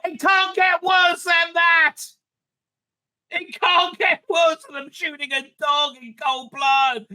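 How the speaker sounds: emphatic disbelief. Retold or imitated. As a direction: lean hard on each word. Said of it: "And I thought".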